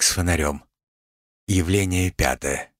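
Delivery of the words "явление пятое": usual speaking voice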